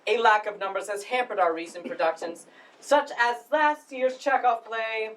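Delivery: formal, halting welcome speech; lightly pompous drama society director addressing the house. Acted. Drama society head welcomes audience to the spring production, formal speech. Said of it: "that was Chris's monologue from the play".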